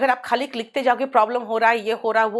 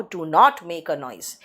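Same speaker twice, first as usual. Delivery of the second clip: teacher dictating the sentence slowly; slow model sentence; 7 semitones lower, much slower than usual. Shown as a demonstration. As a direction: do not make a noise, very slow and low. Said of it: "इसका मतलब है".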